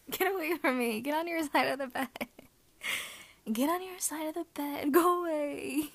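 flustered. Acted. Flustered pushing away, louder.

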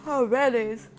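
words stretched through a yawn. Real, not acted. Player talking about healing items mid-game, yawning. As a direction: yawn while saying Band-Aids. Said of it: "because I yawned".

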